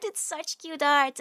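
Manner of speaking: slow, gentler affection. Real, not acted. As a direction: say it again, settling down.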